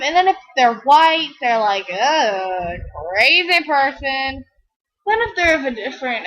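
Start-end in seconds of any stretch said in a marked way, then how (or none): 1.9-4.4 slow, scornful 'Ugh, crazy person'; disgusted mutter. Retold or imitated. White stranger dismissing her as crazy, slow and scornful. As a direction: drawl it out with disdain.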